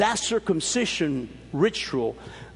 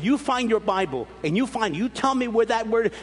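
higher, insistent challenge; mock combative demand; 5 semitones higher than usual. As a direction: push back like the angry young Christian. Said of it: "you see how I was?".

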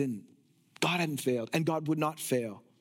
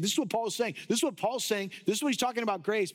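lightly mocked accusers, raised pitch; 4 semitones higher, faster than usual. Critics spreading claims about Paul's teaching, lightly mimicked raised-pitch chatter. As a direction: repeat it like busy rumour-spreaders. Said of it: "things that they were saying".

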